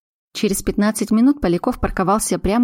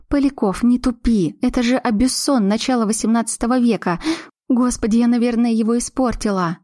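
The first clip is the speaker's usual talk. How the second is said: raised pitch, exasperated; higher young woman, fretting over carpet; 4 semitones higher than usual. Acted. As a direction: scold him, then fret. Glasha worried about tapestry.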